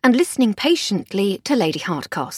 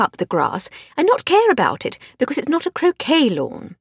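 posh lady voice; 3 semitones higher than usual. Acted. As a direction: play the genteel lady of the house. Voiced Lady Hardcastle dialogue.

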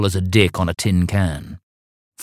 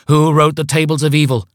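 high, booming cult chant; grand cult leader; 8 semitones higher, 5 dB louder than usual. Acted. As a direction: intone like a vain cult leader. Cult call and response.

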